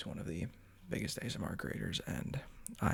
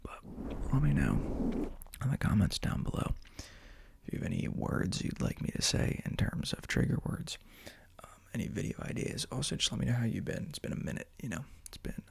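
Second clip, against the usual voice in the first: ASMR whisper. Real, not acted. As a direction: whisper gently into the mic.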